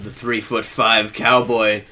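laughing reveal. Real, not acted. Surprised reveal.

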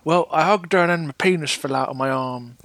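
lightly voiced rambling old-timer; a hint of an old grandpa spinning yarns; old prospector. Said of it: "tell your grandchildren".

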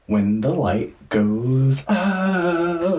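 horror host. Acted. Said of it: "Why do you sound, like, sexy?".

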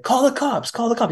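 high-pitched mock panic; agitated drug addict. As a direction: mimic a frantic addict demanding help. Acting out addict fighting guard.

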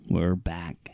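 hushed whisper, surprised. Real, not acted. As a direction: breathe it out in disbelief. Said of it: "you sound surprised".

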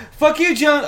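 very high, loud character squeal; Shorzy. Retold or imitated. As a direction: chirp a rival in a put-on high voice. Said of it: "he just keeps going".

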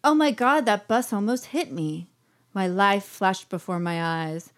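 mildly hammed-up breathless drama; melodramatic soap heroine. Heroine nearly hit by a bus, mild melodrama. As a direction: play a touch of soap opera shock. Soap heroine's near-death monologue, read aloud.

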